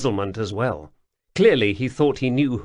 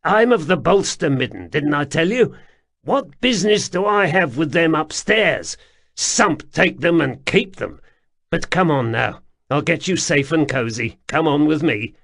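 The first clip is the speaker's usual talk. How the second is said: higher, louder, eager and coaxing; coaxing underground man; 5 semitones higher, 4 dB louder than usual. A narrator's reading. Wemreddle coaxes the pair to come with him, higher and eager. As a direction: beckon them along, keen to please.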